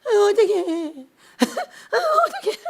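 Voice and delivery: hammed-up tearful panic; mock whining soldier. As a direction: ham up a panicking coward. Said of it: "싸야 되는데".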